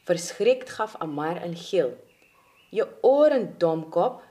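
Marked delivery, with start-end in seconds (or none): 2.7-4.2 urgent shout, falling away; calling out. Acted. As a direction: call out an impatient reminder. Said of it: "riep Langaneki".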